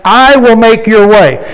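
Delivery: firm stress on "I" in "I will make your way"; emphatic quote. Retold or imitated. Preacher quoting God's promise to the congregation, emphatic "I". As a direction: quote it with weight, leaning on "I". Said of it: "he put emphasis on that".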